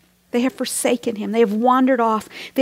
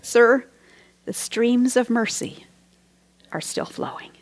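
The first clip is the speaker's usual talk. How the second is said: gentle reply. Retold or imitated. Woman answers the unhappy hymn writer, gently. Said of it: "this woman responded gently".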